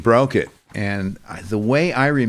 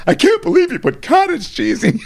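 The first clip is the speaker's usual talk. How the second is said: laughing. Retold or imitated. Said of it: "texted me and said".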